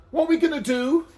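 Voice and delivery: very high, loud plea; desperate donkey man. A narrator's reading. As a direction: wail the question. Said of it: "said the donkey man".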